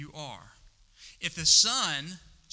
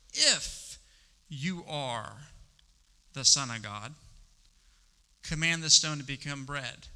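devil's taunt; slower than usual. Acted. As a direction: tease him like a sly devil. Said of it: "the devil said to him".

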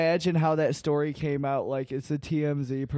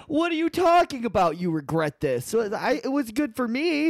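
high, loud laughing disbelief; laughing outrage; 8 semitones higher, 4 dB louder than usual. Acted. Laughing mock indignation.

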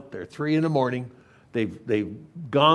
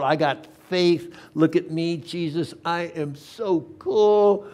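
higher, showy boasting that slows at the end; cocky confidence; 5 semitones higher, 3 dB louder than usual. Acted. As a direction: show off with mock swagger, stretching the brag. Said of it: "all the confidence in the world".

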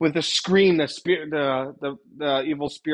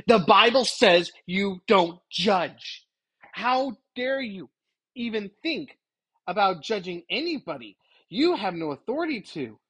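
slow, emphatic mock rebuke, pitched up; indignant accuser; 4 semitones higher than usual. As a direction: imitate a scolding accuser, drawing out each phrase. Acting Satan's indignant rebuke.

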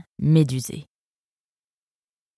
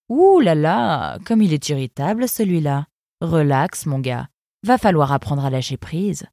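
a cool, sardonic river guard; fox guard's voice. Acted. Eunice sizing up the arrivals, lightly voiced sardonic fox. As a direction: speak down to the newcomers, unimpressed.

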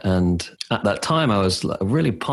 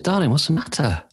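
higher, concerned mock-wife question; lightly voiced worried wife; 8 semitones higher than usual. Wife finding him sobbing at the door, higher concerned voice. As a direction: ask tenderly as his wife.

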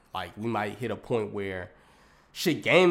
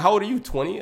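high, louder disbelieving question; shocked question; 10 semitones higher, 6 dB louder, faster than usual. Retold or imitated. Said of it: "I was like".

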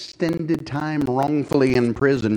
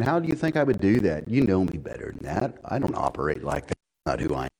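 gentle Joseph; 4 semitones lower, 4 dB quieter than usual. Retold or imitated. Joseph weeping, answering his brothers.

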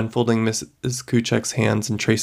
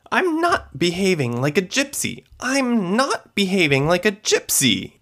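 higher, insistent yelled protest; yelled from the kitchen; 9 semitones higher than usual. Acted. Wife yelling from the kitchen at her son. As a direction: call it back from the next room. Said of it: "yelled Missus Povulich from the kitchen".

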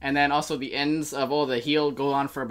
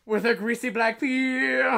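monotone; 6 semitones higher, slower than usual. Shown as a demonstration. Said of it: "monotone tone".

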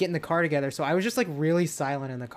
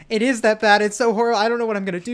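retelling her own panic, louder and higher; panicked; 4 semitones higher, 5 dB louder, faster than usual. Retold or imitated. Friend retelling her own panic to the group, mock-frantic and louder. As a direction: voice rising as she frets over the text.

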